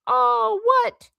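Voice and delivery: very high, incredulous outburst; thundered question. A narrator's reading. Hagrid echoes Harry's question, thundering in disbelief. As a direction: throw ALL WHAT back in outraged disbelief. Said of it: "Hagrid thundered".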